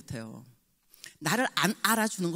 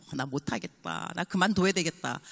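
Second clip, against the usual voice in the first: mock discouraged. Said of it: "상담을 좀 해요".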